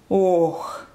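low groan; groaned "okh". A narrator's reading. Janitor on the fire ladder, low groan. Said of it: "простонал дворник".

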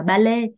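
"ballet" as Vietnamese "ba-lê"; two even Vietnamese syllables, "ballet" as "ba-lê"; wrong Vietnamese reading. Shown as a demonstration. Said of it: "nhưng mà nó không đúng".

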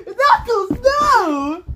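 high alarmed yell of his name; panicked shout. Acted. Panicked friend calls out.

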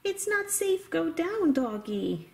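high, small pleading voice; worried toy horse. Pretend. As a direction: warn the doggy in a little high voice. Toy horse warns the doggy.

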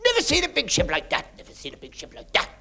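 high, awed exclaiming; amazed Irishman. Retold or imitated. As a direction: gawp at the ship in wonder. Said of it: "there's an Irish fellow said".

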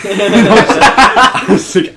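laughing high through the words; can't get it out for laughing. Real, not acted. Retelling the nurse exam, laughing high.

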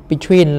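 "Between" weighted on its second syllable; second-syllable stress. Shown as a demonstration. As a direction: lean into "tween" in "Between". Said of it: "là những âm hai". (nhấn âm hai của "Between")

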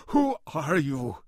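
slow, high, loud challenge; indignant cry, drawn out. A narrator's reading. Janitor towering over Goodman, crying out. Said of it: "he cried".

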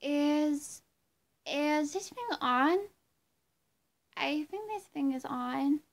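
slow, stretched-out pop star impression; a pop singer. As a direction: play a pop diva tentatively testing the mic. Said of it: "get Britney now to come out on the bed and do this impression".

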